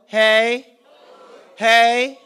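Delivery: loud hype call; crowd call. Real, not acted. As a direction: pump up the crowd with a shouted hey. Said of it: "I need a little bit of energy".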